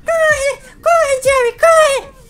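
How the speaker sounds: being chased. Pretend. Fugindo do palhaço.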